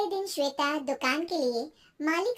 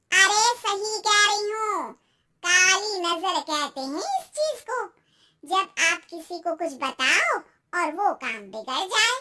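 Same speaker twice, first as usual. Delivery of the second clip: warning aunty; 2 semitones higher, 4 dB louder than usual. Acted. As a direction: insist ominously on the evil eye.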